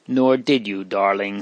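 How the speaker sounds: lightly tender, soothing; mild tenderness. Acted. Sister soothing the weeping girl, mildly tender. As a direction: comfort her gently. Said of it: "with her tenderest caresses".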